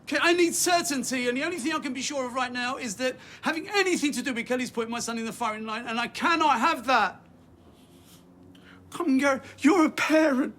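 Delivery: insistent parent's appeal, voice pushed up; urgent pleading. Acted. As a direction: press the other parent hard to understand. Worried parent pleading about son.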